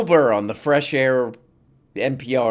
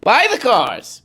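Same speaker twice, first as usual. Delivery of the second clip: mock Trump; 6 semitones higher than usual. Mocking Trump's PR push for the cars, in a hammed-up put-on voice. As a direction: ham up Trump pleading for the cars. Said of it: "Go ahead".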